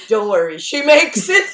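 teasing whisper-close reassurance, rising high; playful reassurance. Retold or imitated. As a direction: tease him kindly that she survives. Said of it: "I go".

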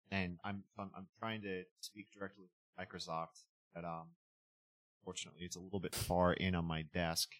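distant, roomy computer mic sound; echoey laptop mic. Real, not acted. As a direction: far from the mic with room echo. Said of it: "You sound kind of, kind of echoey".

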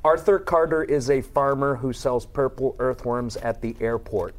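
Arthur Carter read with hard American R's; over-pronounce every R in Arthur Carter; accent drill. Shown as a demonstration. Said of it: "How did you lose it?".

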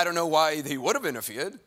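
lightly voiced comedian quote; Jackie Mason. Guest quoting the president, slipping into a comic voice. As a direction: slip slightly into a comedian's cadence. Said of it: "lapsed into that Jackie Mason voice".

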